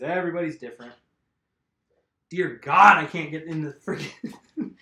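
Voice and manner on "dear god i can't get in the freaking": frustrated outburst. Real, not acted. Frustrated struggle with tire.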